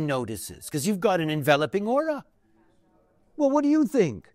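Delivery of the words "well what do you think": a lightly voiced curious friend, pitched up. Friends at an Ibiza cafe drawing you in with a higher curious question. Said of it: "they will say to you".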